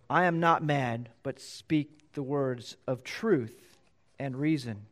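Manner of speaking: slow, gentle, courteous reply; Paul replies very nicely to Festus; polite and gentle. Acted. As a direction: answer the ruler kindly and slowly. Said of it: "he addresses him very nicely".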